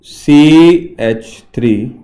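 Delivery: dragged out, strained throat; speaking past a scratchy throat; rough throat. Real, not acted. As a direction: push through a cough. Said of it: "बहुत जोर से आ रहा है".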